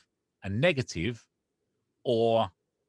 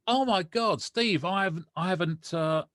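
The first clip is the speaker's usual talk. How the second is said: surprised; 6 semitones higher than usual. Retold or imitated. Old friend calls after twenty years.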